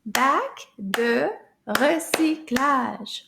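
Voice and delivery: Bac de recyclage slow, in separate syllables. Shown as a demonstration. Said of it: "clap all those words".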